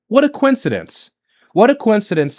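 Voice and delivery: a pitch jump into heavy sarcasm; sarcastic. Real, not acted. A streamer scoffs at the timing of protests, sarcastic high jump. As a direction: say it like you don't believe a word.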